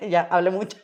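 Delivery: sheepish, laughing apology. Real, not acted. Guest laughing to the host about rambling on, giggly. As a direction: say it through a laugh. Guest jokes she talked too much.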